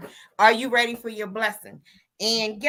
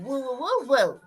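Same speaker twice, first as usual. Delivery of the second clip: woo cheer; 2 semitones higher, slower than usual. Shown as a demonstration. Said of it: "I had to give them a woo".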